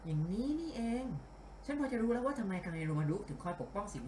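a hint of a composed female detective; lightly voiced detective boss. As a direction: lightly act the boss reasoning out a case. (พากย์เบาๆ เป็นนักสืบหญิงกำลังวิเคราะห์)

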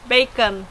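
bacon pronounced as in English; Swedish bacon. Shown as a demonstration. Teacher showing bacon sounds universal, plain English-like pronunciation. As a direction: model bacon, word on its own. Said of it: "bacon is the same as bacon".

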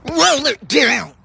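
screaming. Acted. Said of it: "Why is she screaming?".

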